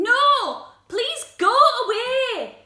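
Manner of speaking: high, loud dismissal; upset refusal. Acted. Spike refuses to open the door, upset loud cry. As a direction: send them away, hurt and cross.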